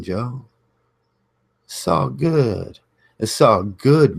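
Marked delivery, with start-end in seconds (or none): 1.7-4.2 higher, slow mocking "It's all good"; mock soothing. Mimicking baby mamas telling him to calm down, mock soothing. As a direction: parrot the soothing brush-off. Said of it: "telling me to calm down".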